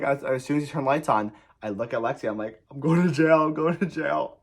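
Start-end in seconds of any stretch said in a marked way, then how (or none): 2.7-4.4 high mock-panicked repetition; retold panic. Driver turns to friend in car, mock-panicked wail. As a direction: fret it high, as if doomed. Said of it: "the most scared I've ever been".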